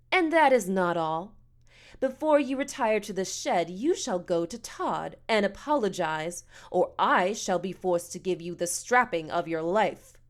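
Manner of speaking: lightly voiced stern matron; a hint of pompous menace; haughty, threatening woman. Missus Amos threatens a strapping.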